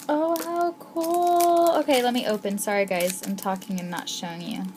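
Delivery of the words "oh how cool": much higher, slow and drawn out; excited squeal. Real, not acted. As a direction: stretch it in thrilled wonder. Awe at charms.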